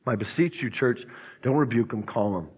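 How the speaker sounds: hushed urgent appeal; soft plea. Real, not acted. Pastor pleading softly with church.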